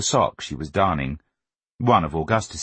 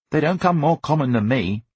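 put-on pitched-up boyish boast; self-righteous boy; 7 semitones higher than usual. A narrator's reading. Augustus claiming to be common man, self-righteous. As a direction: assert it proudly as a child. Boy's indignant inner speech.

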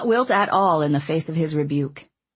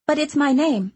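kindly; 9 semitones higher than usual. A narrator's reading. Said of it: "the girl repeated in a kind way".

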